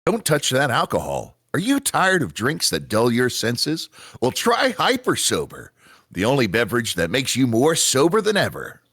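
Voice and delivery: punchy ad-read pitch; commercial announcer. Acted. Announcer pitching Hyper Sober to tired Taki, ad-read style. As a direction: sell it like a TV spot.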